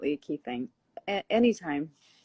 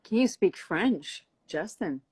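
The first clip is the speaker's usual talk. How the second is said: slow, teasing ask; drawn-out teasing question; 3 dB louder, slower than usual. Real, not acted. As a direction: draw the question out playfully. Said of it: "why do you say it like that".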